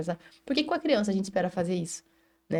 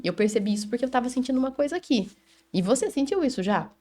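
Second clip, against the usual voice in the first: exemplo acolhedor; 4 semitones higher than usual. Shown as a demonstration. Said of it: "eu posso dizer".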